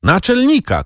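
again high, desperate cry; a high, pleading shout of Naczelnika; shouted call. A narrator's reading. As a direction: keep calling in despair. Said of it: "krzyknął".

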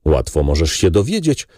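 usual speaking voice

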